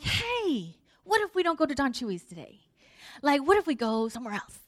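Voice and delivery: bright idea. Retold or imitated. Wife springs a new plan on her husband, excitedly.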